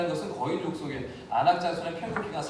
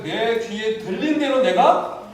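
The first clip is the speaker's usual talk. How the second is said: solemn voice of God; 5 semitones higher, 7 dB louder, slower than usual. Retold or imitated. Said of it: "하나님이 뭐라고 하시는데".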